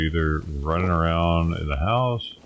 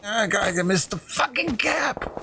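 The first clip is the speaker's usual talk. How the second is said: much higher, cracking frustrated cry; frustrated yelp. Real, not acted. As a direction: shriek at the missed shot. Missed shot in frantic gunfight.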